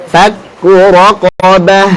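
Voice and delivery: "raqabah" ending on an audible flowing h; breathed final h. Shown as a demonstration. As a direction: let the breath flow out at the end of "raqabah". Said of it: "jangan lupa alirkan suaranya".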